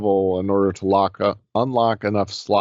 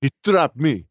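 Russian accent impression; 6 semitones higher than usual. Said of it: "John Malkovich's accent in that movie".

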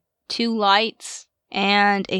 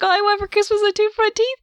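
mocking singsong quote; 11 semitones higher, faster than usual. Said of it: "She's like".

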